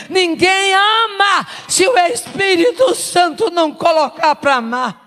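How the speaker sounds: high ringing preacher's cry; preaching shout. Real, not acted. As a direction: lift it to a shout. (grito de pregação)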